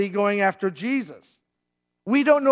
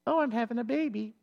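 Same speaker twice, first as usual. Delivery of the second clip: mock calm labor; 9 dB quieter than usual. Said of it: "weren't just going".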